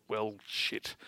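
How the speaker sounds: soft, resigned mutter to self; muttering to himself. Retold or imitated. Josh to himself after hanging up the phone, muttering. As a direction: mutter it low under your breath. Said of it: "mutters to himself".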